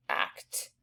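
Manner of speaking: teacher whispering act to show the t; whispered act. Shown as a demonstration. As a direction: act whispered, ending on a crisp t. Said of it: "And you hear the T".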